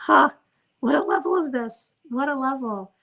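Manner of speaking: high-pitched marvelling, bursting out loud then easing; amazed admiration. Real, not acted. Teacher marvelling at a sage's patience, awed. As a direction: exclaim in wonder at such greatness.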